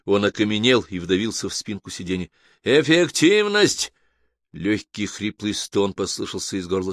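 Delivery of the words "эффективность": loud, high, drawn-out machine announcement; ringing, slow automated call; booming computer. A narrator's reading. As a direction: thunder it out slowly like a computer calling numbers. The voice announces next category.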